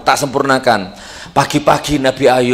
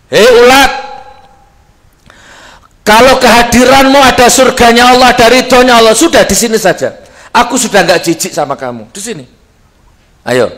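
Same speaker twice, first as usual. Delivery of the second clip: higher, loud tender call to a worm; higher, louder voice of the prophet speaking to a worm; Ayub to the worm; 7 semitones higher, 5 dB louder than usual. Acted. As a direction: coax the worm back onto his body.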